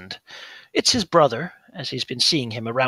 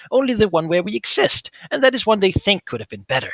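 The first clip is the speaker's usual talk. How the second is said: higher, urgent coaxing, speeding up; pleading creature voice; 6 semitones higher, 5 dB louder than usual. Acted. Fingermuncher pleading as Gesh walks away, higher urgent voice. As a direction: beg him not to turn away.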